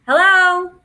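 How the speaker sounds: high, loud drone hello; piercing little drone call. A narrator's reading. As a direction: holler it out to get an answer. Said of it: "Fly calls out again".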